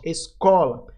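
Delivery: "Escola" with a firm CO; stress on CO. Shown as a demonstration. Teacher confirming the stronger syllable, stress on CO in "Escola". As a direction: lean on CO in "Escola", then fall away. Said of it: "o có aqui vai ser a sílaba mais forte".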